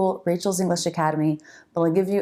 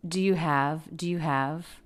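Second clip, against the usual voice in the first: quick and unclear. Shown as a demonstration. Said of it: "said really quickly and a little unclearly".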